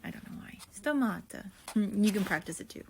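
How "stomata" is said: "Stomata" with a light Italian lilt; playfully Italian-accented word. Shown as a demonstration. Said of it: "say it with an Italian accent".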